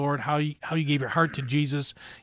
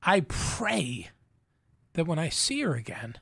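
holding back real tears; halting, tearful words with the voice catching; choked up; 3 dB quieter than usual. Real, not acted. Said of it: "It's all right".

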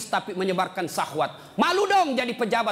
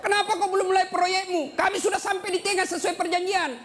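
shouting across; 9 semitones higher than usual. Acted. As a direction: yell it across the bridge, impatient. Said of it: "Dia teriak".

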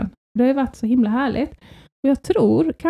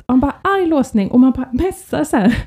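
ordinary talk

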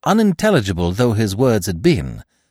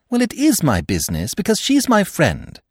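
firm; 10 semitones higher than usual. Acted. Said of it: "said Eve firmly".

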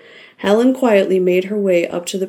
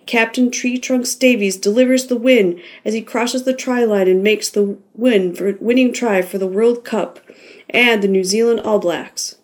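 raised, higher voice calling the winning try; stadium announcer; 4 semitones higher than usual. Acted. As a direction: announce the win to the cheering crowd.

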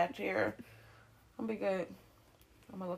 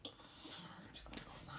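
unvoiced mock whisper; hushed, uneasy aside; wary retreat; 21 dB quieter, much faster than usual. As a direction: whisper it, as if edging away. Acting her wary retreat from stranger.

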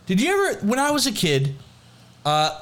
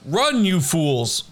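slow Gandalf line; 3 semitones higher, much slower than usual. Retold or imitated. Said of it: "from the film Lord of the Rings".

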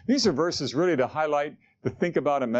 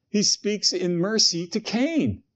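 slow emphasis; 6 semitones higher, slower than usual. Acted. Preacher dwelling on mercy.

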